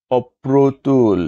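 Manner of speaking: অপ্রতুল slowly as "opprotul"; slow, careful অপ্রতুল, "op-pro-tul"; correct pronunciation. Shown as a demonstration. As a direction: stretch অপ্রতুল, doubling the p. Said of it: "সঠিক উচ্চারণ".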